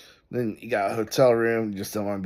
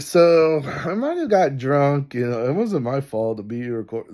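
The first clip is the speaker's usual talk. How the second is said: mock wife confession; 3 semitones higher, 4 dB louder than usual. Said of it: "She's like".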